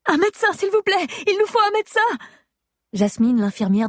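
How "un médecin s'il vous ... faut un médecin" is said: much higher, calling out; urgent call. Acted. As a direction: shout urgently for a doctor. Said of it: "Je pousse un cri".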